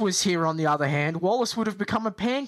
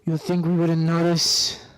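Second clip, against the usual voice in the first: louder, a hammed-up Spanish accent on "You think we wouldn't notice?"; Spanish accent attempt; 5 dB louder than usual. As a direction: try a rough Spanish-accented bandit line. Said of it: "That's, that's my Spanish attempt".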